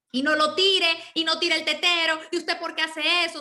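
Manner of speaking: a touch of exasperated parent; parent scolding a child. Acted. Parent telling a baby not to throw the bottle, mildly scolding.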